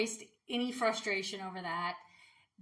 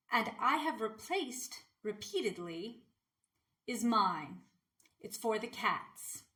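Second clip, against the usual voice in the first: measured poem reading with pauses between phrases; poem recital. Acted. Poet reading a poem about a tiff with a neighbor, measured recital. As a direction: recite it line by line, pausing after each phrase. Reads own poem aloud.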